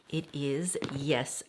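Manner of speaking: hushed little whisper. Real, not acted. Unboxing for viewers, whispering the reveal.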